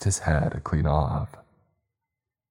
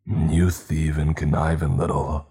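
seething through teeth. Acted. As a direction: spit it out through clamped teeth. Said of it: "he seethed through his teeth clamped together".

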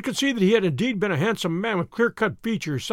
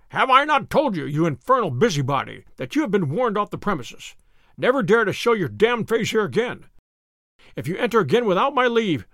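put-on angry old colonel. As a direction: bark threats at the intruders. Old colonel berates the visitors.

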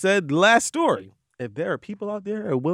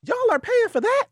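incredulous. Real, not acted. Mocking men who buy lingerie pics.

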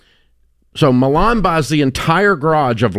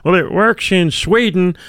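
mock know-it-all professor, pitched higher; mocking quote; 6 semitones higher than usual. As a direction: parody the smug professor's comeback. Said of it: "some idiot college professor that this stuff actually works".

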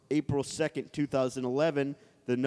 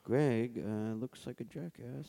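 whispering; 4 semitones lower, 6 dB quieter, faster than usual. Pretend. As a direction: whisper it like a secret. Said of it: "now we're gonna whisper stuff".

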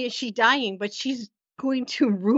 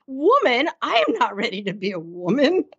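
alarmed disbelief. Acted. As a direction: act out a girl balking at the news. Voicing Anne's alarmed reaction.

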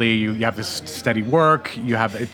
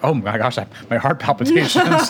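shocked; 3 semitones higher than usual. Retold or imitated. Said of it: "I'm like".

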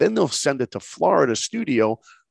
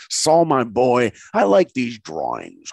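put-on slow, drawn-out old mentor's voice; Bill Matthews; 3 dB louder, slower than usual. Gatekeeper praises a student's drawings, lightly voiced cool old man. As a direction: lightly imitate a cool old gentleman, taking your time. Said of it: "He had the coolest voice".

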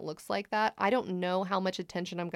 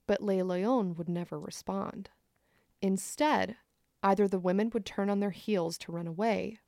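story narration. A narrator's reading.

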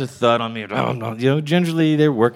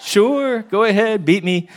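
much higher, very slow dreamy voice; blissed-out drug haze, higher and slow; high on ecstasy; 10 semitones higher, slower than usual. Retold or imitated. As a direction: float it out like you're high. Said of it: "I'm high on E".

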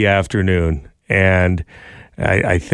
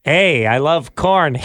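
Jim impression; 4 semitones higher, slower than usual. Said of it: "my Jim impression".

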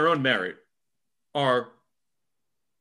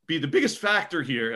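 voice cracking. Real, not acted. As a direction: voice cracks upward mid-phrase. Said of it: "I think my voice just cracked".

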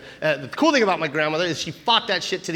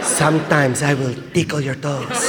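mock-spooky grandmother, louder midway; Lola Tinay; 2 semitones lower, 3 dB louder, slower than usual. Grandmother describing how she will haunt him, mock-spooky voice. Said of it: "She's like".

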